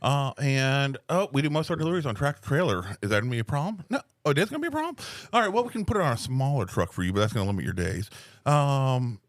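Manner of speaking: helpful, upbeat phone manner; customer service voice. Shown as a demonstration. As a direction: talk a customer through delivery politely. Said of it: "my phone voice to customers".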